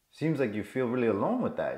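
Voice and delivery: compassionate. Acted. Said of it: "compassion, number one".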